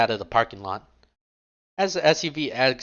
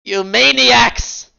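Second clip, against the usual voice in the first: hammed-up howl of despair, much higher and louder, very slow; desperate dramatic cry; 11 semitones higher, 9 dB louder, much slower than usual. Rook mourning the eaten tacos, hammed-up anguished howl. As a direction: wail it like a ruined hero at the heavens. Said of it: "dramatically raises his arms in desperation".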